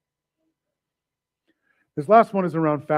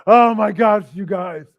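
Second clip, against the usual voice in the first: mock oversharer; 5 dB louder, slower than usual. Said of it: "they post every hardship".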